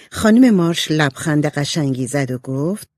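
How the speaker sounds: ordinary delivery, nothing marked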